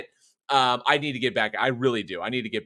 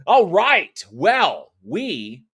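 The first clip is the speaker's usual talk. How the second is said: big high opening, then settling; show-host kickoff; 6 semitones higher, 7 dB louder, much slower than usual. Real, not acted. Host opening the horror movies talk, showy. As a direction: launch the segment with a flourish. Host launches the show's topic.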